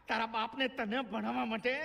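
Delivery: ordinary talk, nothing marked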